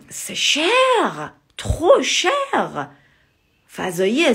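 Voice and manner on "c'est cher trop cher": c'est cher, trop cher pitched high with falling stress on trop; high emphatic gloss. Shown as a demonstration. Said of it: "ça veut dire". (trop cher, aigu et appuyé)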